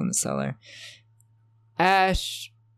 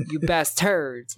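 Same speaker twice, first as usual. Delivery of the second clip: higher, drawn-out bad French accent; mock French accent; 4 semitones higher, slower than usual. Ash if he was French, protesting in mock French accent. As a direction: stretch it out in a fake French accent. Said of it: "If he was French".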